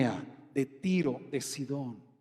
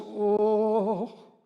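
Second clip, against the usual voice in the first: drawn-out mock "oh"; imitated raised voice. Preacher mimicking women raising their voices, drawn-out mock "oh". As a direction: hold a long "oh", imitating someone raising their voice. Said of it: "cuando la alzan la voz".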